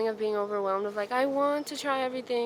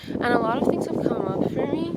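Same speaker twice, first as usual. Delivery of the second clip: louder and higher, ending on a rise; raised voice; 4 semitones higher, 9 dB louder than usual. Real, not acted. Vlogger talking about therapy to camera, voice raised. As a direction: project it loudly, pitch lifted. Raises voice checking someone is there.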